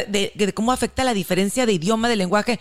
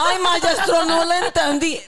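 playing dumb; 7 semitones higher, slower than usual. Fingiendo no entender.

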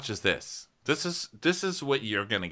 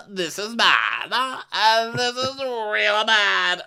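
alarmed; 12 semitones higher, 6 dB louder, much slower than usual. Retold or imitated. Acted alarm in retelling.

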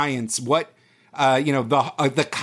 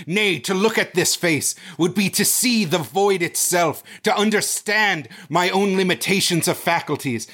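overwrought horror narrator, building in pitch; mock Lovecraft narration. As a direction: recite with grandiose, mounting dread.

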